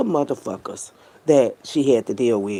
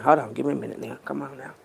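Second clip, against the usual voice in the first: fighting tears; faster than usual. Real, not acted. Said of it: "these gangsters start crying".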